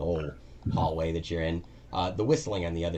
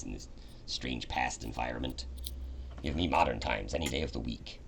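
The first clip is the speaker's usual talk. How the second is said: a low, lightly voiced grumbling machine; Reggie the robot; 3 semitones lower, 4 dB quieter than usual. Reggie explaining to the party, low mechanical grumble. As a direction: grumble like a malfunctioning robot sidekick.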